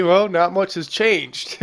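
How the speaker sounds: slow, dry deadpan line; dry deadpan quote. Retold or imitated. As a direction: deliver it slow and dry, like a jaded soldier. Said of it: "the other guy is gonna say".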